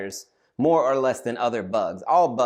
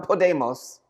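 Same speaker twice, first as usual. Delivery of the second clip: raised, high shout; student shouting in panic; mock shout; 5 semitones higher, slower than usual. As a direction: shout it hopefully. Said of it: "He just starts shouting".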